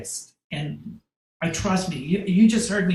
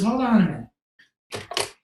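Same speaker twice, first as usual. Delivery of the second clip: slow, higher, drawn-out hold on; drawn-out agent voice; 6 semitones higher, 4 dB louder, slower than usual. Retold or imitated. Agent stopping the photographer, slow and drawn out. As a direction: stretch it out like a bossy agent.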